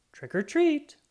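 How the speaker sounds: bright, loud, high call of trick or treat; shouting. Acted. Kids at neighbors' doorbells, shouting trick or treat. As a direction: belt it out at the door.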